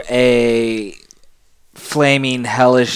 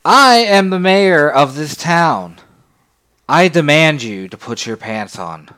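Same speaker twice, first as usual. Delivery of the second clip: mayor voice; 4 semitones higher, 4 dB louder than usual. Acted.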